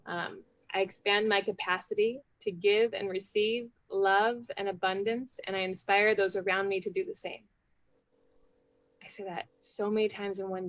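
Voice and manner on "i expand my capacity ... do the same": reciting a mantra. Shown as a demonstration. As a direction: say it like a daily affirmation on the bike. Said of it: "my mantra that I say every day is".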